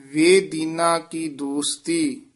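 ਵੇ, a small gap, then ਦੀਨਾ, said slowly; ਵੇ stressed and separated from ਦੀਨਾ; break after ਵੇ. Shown as a demonstration. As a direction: keep ਵੇ apart from ਦੀਨਾ. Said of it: "ਇਕੱਠਾ ਨਹੀਂ ਕਹਿ ਦੇਣਾ".

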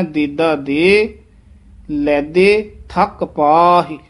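slow "ਦੇਦਾ ਦੇ ਲੈਦੇ", vowels not nasalised; no nasal dot. Shown as a demonstration. Teacher modelling the line, slow un-nasalised "ਦੇਦਾ" and "ਲੈਦੇ". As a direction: say "ਲੈਦੇ" slowly without any n sound. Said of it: "ਇਹਦਾ ਉਚ-, ਉਚਾਰਨ ਕਰਨਾ ਹੈ".

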